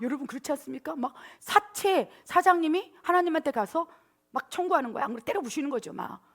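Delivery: ordinary delivery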